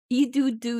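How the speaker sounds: loud yelled nonsense syllables; Furby forced to yell gibberish, loudly. Acted. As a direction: yell it out, desperate. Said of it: "you yell".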